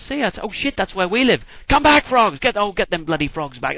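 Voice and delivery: high, loud panicked calling after frogs; comic panic. Acted. Pharaoh calling his frogs back from the palace, panicked. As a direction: flap as the frogs invade your home.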